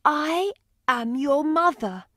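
anxious mother. Acted. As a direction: press him with questions, hoping. Woman tells the boy.

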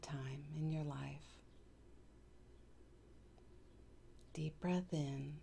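calm meditation guide with long pauses; unhurried, even guiding voice; guided meditation. Acted. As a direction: lead them gently through breaths and affirmations, pausing between phrases.

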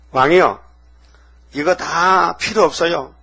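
put-on a boy's fervent faith pouring out; bold declaration. David boldly addresses king.

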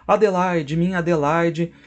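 high, loud lover's call; joyful greeting. Acted. Tancredo rushing to embrace Adelaide, high joyful call. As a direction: call out to her with joy, arms open.

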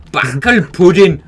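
loud, slow, drawn-out exclamation; a slow, booming Backel pudding!; shouted with relish. Shown as a demonstration. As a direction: belt the word out like a battle cry. Repeating the German word.

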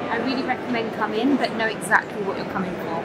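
talking with a numb, stuck mouth; stiff Botox mouth. Real, not acted. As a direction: lips barely moving after Botox. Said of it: "I can't even speak 'cause my mouth is stuck now".

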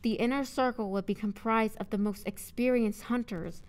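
deliberate read with names rising in a list; measured audiobook narrator; story narration. A narrator's reading. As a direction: narrate clearly, lifting each listed name.

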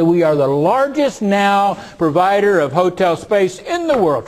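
loud, high mock-proud announcement; proud boast. Quoting Marriott's boast about being largest, proudly. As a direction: boast it slowly, hitting the big words. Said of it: "said very proudly".

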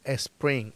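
"spring" mispronounced as "espring"; added initial E. Shown as a demonstration. Teacher rejecting the learners' error, "spring" with an E added. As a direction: sound an E before the S of "spring". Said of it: "la E no va".

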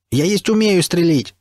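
put-on broken Russian with an English accent, shouted high and slow; a foreigner blurting it out in broken Russian; English accent outburst. A narrator's reading. William protesting to the stalkers, English-accented shout. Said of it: "выкрикнул Уильям Блейк".

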